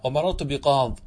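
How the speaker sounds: بقاض ending on the bare d sound; ya dropped. Shown as a demonstration. Teacher shows the majority's pause, bi-qaad without ya. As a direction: leave no vowel after بقاض. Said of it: "تحذف الياء".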